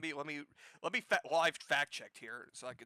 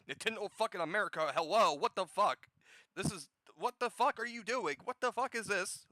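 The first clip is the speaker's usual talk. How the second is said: loud, higher-pitched disbelief; outraged rant; 5 semitones higher, 5 dB louder than usual. Real, not acted. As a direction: rant in exasperated outrage at the company.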